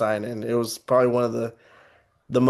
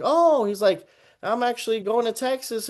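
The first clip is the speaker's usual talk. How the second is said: R.L. Stine voiced high and light; lightly voiced cheerful old author, pitched up; a high, friendly mock old man; he's like; 10 semitones higher than usual.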